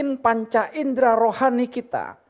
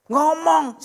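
mock outburst; 6 semitones higher, 4 dB louder than usual. Acted venting at spouse.

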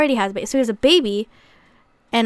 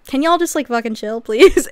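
fed up, louder on please; exasperated plea; 5 dB louder than usual. Retold or imitated. Brittany telling her parents to calm down, exasperated.

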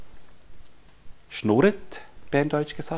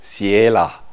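put-on proud toddler; 3 semitones lower, 8 dB louder, much slower than usual. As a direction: imitate a little girl proudly naming herself. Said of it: "sagt sie ganz stolz". (stolze Kinderstimme)

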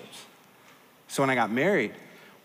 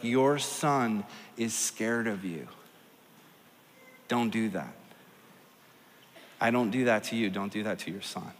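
gentle hushed voice; 6 semitones lower, 6 dB quieter than usual. Retold or imitated. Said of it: "God whispering something to me".

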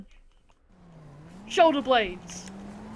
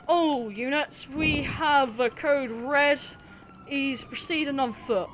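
police radio call; slower than usual. Pretend. Playing cop radio call.

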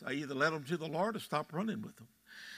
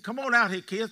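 grandfather calling out; 5 semitones higher, 6 dB louder than usual. Retold or imitated.

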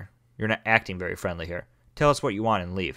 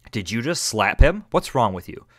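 outraged; 7 dB louder than usual. Real, not acted. Player furious at villain slapping kid. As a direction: confront him hard.

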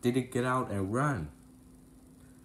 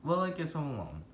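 moaning; 4 semitones higher, 3 dB quieter, much faster than usual. Acted. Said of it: "he said with a moan".

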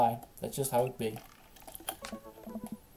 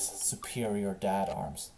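savoring the phrase; 4 semitones lower, 5 dB quieter, slower than usual. Shown as a demonstration. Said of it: "I like that phrase".

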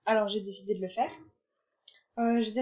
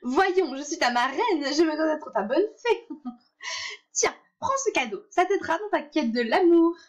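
fairy godmother voice; 5 semitones higher than usual. Acted. Godmother aunt keeps talking.

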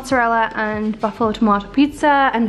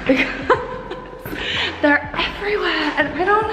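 laughing; 6 semitones higher than usual. Real, not acted. Laughing at soldiers found everywhere.

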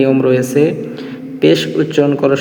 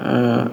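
a very soft, much quieter aspirated ha; soft ha sound; 4 semitones lower, 6 dB quieter than usual. Shown as a demonstration. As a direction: let the ha out gently, barely voiced. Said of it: "হালকা আওয়াজে পড়ব".

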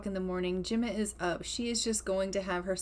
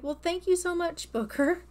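voicing the mom; 8 semitones higher than usual. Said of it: "And she's like".

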